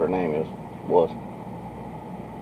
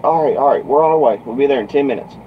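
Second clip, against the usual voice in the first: higher, hurried-sounding agreement; imitated flustered father; 5 semitones higher, 3 dB louder, faster than usual. Father promising trucker they're on the way, imitated agreement. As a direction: lightly mimic a dad giving in.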